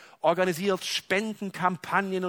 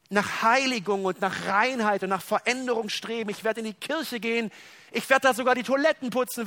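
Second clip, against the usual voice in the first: eager pledge; 5 semitones higher than usual. Retold or imitated. Sinner eagerly promising God to improve.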